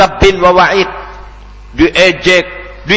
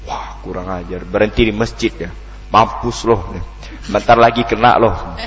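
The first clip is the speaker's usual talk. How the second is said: mock gloating threat; 6 semitones lower, 5 dB quieter than usual.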